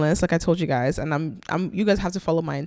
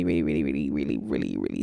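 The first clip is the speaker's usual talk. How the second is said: dropping low. Real, not acted. Drawn-out repeated really.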